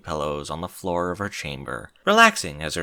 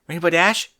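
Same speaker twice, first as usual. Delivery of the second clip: serious Twilight; 8 semitones higher, 7 dB louder than usual. Acted. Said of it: "her voice as serious as Rainbow had ever heard it".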